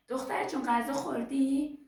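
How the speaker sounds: high, loud call with stretched ending; imitated motherly shout. Mother calls to the girl from the kitchen, imitated shout. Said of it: "مادرش از تو آشپزخونه داد زد".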